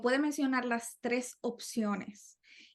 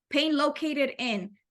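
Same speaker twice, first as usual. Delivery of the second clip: slow English exam read; 3 semitones higher, much slower than usual. Shown as a demonstration. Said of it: "ayuda mucho porque es como, ok".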